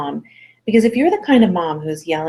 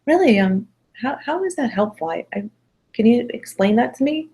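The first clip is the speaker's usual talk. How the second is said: compassionate; 5 semitones higher than usual. Shown as a demonstration. Parent to a fibbing child, compassionate questioning. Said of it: "use the compassion".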